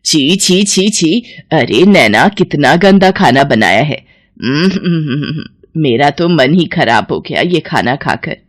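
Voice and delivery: disgusted mother-in-law complaint; angry scolding. Acted. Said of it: "गुस्से से चिल्लाती है".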